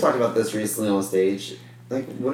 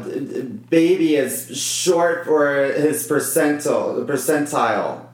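stumbled wonky phrasing; 3 semitones higher, slower than usual. Real, not acted. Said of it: "You said that wonky".

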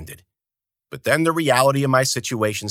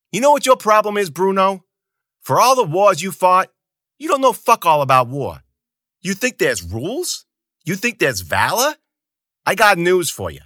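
loud, high scornful rant; angry lecture; 9 semitones higher, 5 dB louder than usual. Acted. Zoot lecturing Bruno about war, high loud scorn. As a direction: sneer it at him.

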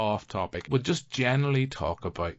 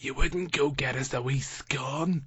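higher, slow pleading wife asking for a scone; wife's voice; 6 semitones higher, slower than usual. Retold or imitated. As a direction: drag it out like a sweet request. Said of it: "don't know why I'm doing this voice for her".

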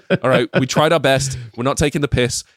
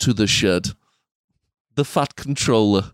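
measured Scouse storybook narration; Scouse narrator, on the edge of laughing; a famous musician's voice; 3 semitones lower than usual. Acted. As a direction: finish the children's tale in a Liverpool accent. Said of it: "unless it's like a famous musician".

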